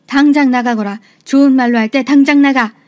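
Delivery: firm, pressing command with force behind it; quiet but forceful. Acted. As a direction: order her out, holding the anger down. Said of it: "조용하지만 힘을 주어 말을 했어요". (조용하지만 힘주어 단호하게)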